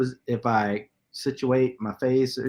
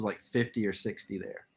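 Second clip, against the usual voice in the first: whispering; 4 semitones lower, 8 dB quieter than usual. Real, not acted. Quiet price aside.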